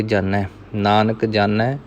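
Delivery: ਜਾਣੈ with a plain dental n, jaa-nai. Shown as a demonstration. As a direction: say ਜਾਣੈ with the tongue at the teeth. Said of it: "ਇੱਥੇ ਨੰਨਾ ਹੈ". (ਜਾਣੈ ਨੂੰ ਨੰਨੇ ਨਾਲ)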